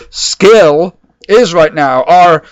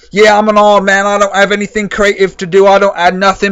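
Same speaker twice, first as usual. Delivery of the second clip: mock hard man; 2 semitones higher than usual. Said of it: "talks like this and gets all hard on it".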